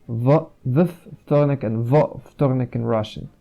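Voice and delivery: W, w wtorek with the V pushed hard; strong V before wtorek. Shown as a demonstration. Teacher showing students a strong V in "w wtorek". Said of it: "you must pronounce the V more strongly".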